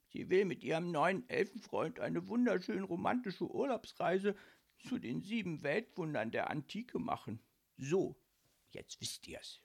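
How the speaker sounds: high, plaintive voice sinking at the end; sad. A narrator's reading. Ghost telling of her trip with another, sad. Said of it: "fuhr traurig fort".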